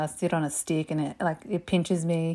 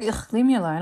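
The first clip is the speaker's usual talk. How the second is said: higher-pitched exasperated groan; imitated teenage backtalk; bratty teen protest; 4 semitones higher, 4 dB louder than usual. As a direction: brush mum off like a sulky teenager. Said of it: "And I was like".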